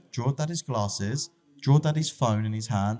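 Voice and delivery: put-on a child building up her request; imitating his daughter. Daughter asking him to draw his phone, high toddler voice. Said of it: "She's like".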